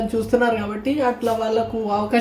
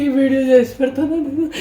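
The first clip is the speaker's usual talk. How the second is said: weepy; 3 semitones higher than usual. Real, not acted. Still weeping.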